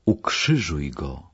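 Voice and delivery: slow, restrained narrated shout; a held-back cry from the mob; understated crowd cry. A narrator's reading. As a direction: give the crowd's demand slowly, without shouting. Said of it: "Tłum wrzeszczał".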